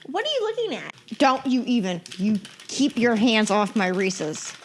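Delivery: hammed-up scolding, stretched at the end; mock warning. Mock warning over candy.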